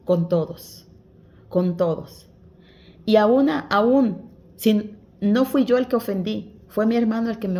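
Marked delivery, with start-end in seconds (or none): 3.1-4.3 slow, loud, drawn-out aún, aún; emphatic slow aún. Real, not acted. Preacher pressing the congregation, slow and loud. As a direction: lean hard on each aún. Preacher stresses even then.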